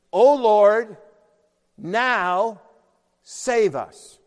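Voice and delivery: crying out prayer. Acted. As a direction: call out as a pleading prayer.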